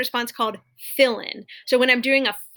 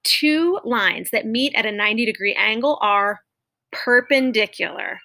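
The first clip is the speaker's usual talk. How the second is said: teacher demo. Shown as a demonstration. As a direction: model the sentence clearly for students. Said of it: "Doing that same one".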